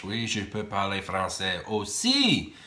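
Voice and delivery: slow, careful French to prove he can; speaking French. Real, not acted. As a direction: answer the viewers slowly in French. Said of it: "wondering if I could speak French".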